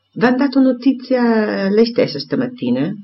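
lightly voiced man exclaiming; exclaimed. A narrator's reading. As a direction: burst out with the question. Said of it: "esclamò lui".

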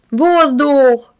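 urgent warning shout. A narrator's reading. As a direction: call out the alarm. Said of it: "закричал Коська Мухин".

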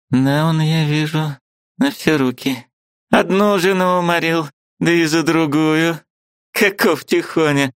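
put-on high, indignant old woman's voice; angry old aunt. Aunt bursting in to scold her niece, high and indignant.

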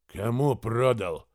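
slow, icy question. Acted. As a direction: ask it coldly. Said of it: "спросил Тремир уже ледяным тоном".

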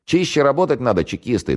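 jeering call. A narrator's reading. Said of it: "донеслось из домика".

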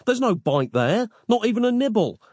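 high-pitched exasperated protest; indignant cry. A narrator's reading. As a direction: protest it in disbelief, pitch climbing. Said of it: "cried Nick".

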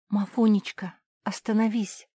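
high, begging call to stop; pleading. Acted. Cinderella begs Mafi to stop, pleading. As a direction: plead with her desperately. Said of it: "взмолилась Золушка".

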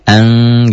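ANG held as a blurred nasal leaning towards sod; veiled N. Shown as a demonstration. Teacher showing pupils the unclear in-between sound, veiled N. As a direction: let the N of ANG melt towards an S. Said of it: "Bunyi N-nya masuk ke sod".

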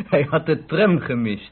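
chuckling while telling it; amused, laughing report. Acted. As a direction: laugh at the clumsy blunder. Amused telling Joop's blunder.

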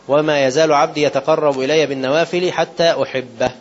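slow measured recitation of the sacred text; solemn slow quoting of scripture; hadith recitation. Acted. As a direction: recite it slowly, weighing each word.

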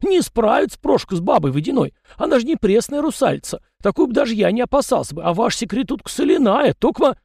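high chatty peasant voice, pitched well up; folksy yard spirit. A narrator's reading. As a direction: play the fussy little yard spirit, talking nonstop. Tikhon argues.

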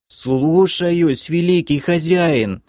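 high, whining servile creature; piercing, plaintive voice. A narrator's reading. Captive creature answering the guard, piercing plaintive whine. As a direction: whine it up high like a pitiful minion. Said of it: "послышался пронзительный и жалобный голос".

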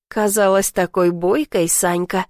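ordinary delivery, nothing marked

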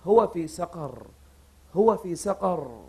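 low, slow, soft echo of the words; dazed repeating. Retold or imitated. The dying man echoes the angels, slow and soft. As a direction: murmur it back slowly as if stunned. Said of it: "وهو قاعد يسمع ويردد".

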